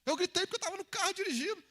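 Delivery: high, insistent protest; acted self-defence. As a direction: explain it in a heightened, pleading pitch. Acted driver explains why they shouted.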